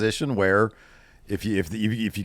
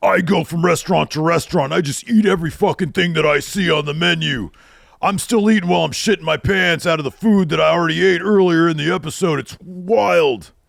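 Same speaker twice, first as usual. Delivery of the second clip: big, loud, pitched-up wrestler voice, wildly stretched out; 8 semitones higher, 5 dB louder than usual. Recounting a TV show segment about eating everything on the menu: Braun Strowman impression. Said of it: "doing my Braun Strowman impression out loud".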